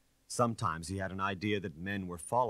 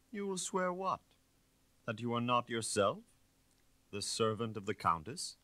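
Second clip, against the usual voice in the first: mocking; 5 semitones higher than usual. Inspector taunts the suspect.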